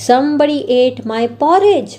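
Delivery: a hint of a stern father bear calling out; Papa Bear's gruff voice. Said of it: "shouted Papa Bear in his big gruff voice". (हल्की सी रौबदार पापा भालू की आवाज़)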